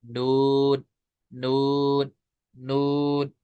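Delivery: नून held level and unnasal; clear noon. Shown as a demonstration. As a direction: sustain नून steadily. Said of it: "ये पढ़ना है".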